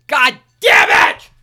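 explosive furious yell at full volume; furious shout. Real, not acted. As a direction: scream it in pure rage. Explodes in rage.

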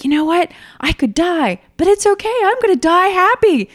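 high, loud, giddy declaration; reenacted reckless joy at full pitch; exultant abandon. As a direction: cry it out like flying downhill without fear. Retold thrill of fearless descent.

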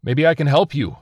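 high, loud, urgent offer; blurting out. A narrator's reading. Survivor offers help to the stranger, blurting out. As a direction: blurt it across to them. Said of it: "Slansky blurted out".

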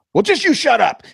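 high, loud mock customer snapping shut up; hammed-up shrill customer telling him off; angry customer.

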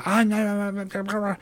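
mock no-no-no from the caller; mock curt caller. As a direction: imitate a caller shutting you down. Caller refusing right off the bat.

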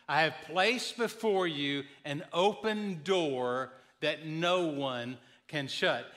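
slow, emphatic verse reading; scripture reading. Real, not acted. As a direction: proclaim the verse slowly, drawing out key words. Reads a Bible verse to congregation.

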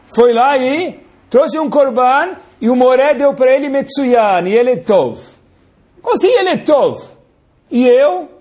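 high, hurt complaining voice; whiny Caim. Acted. Caim complaining to his father about Hashem, high whine. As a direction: whine like a wounded older brother. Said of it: "Aí Caim fala".

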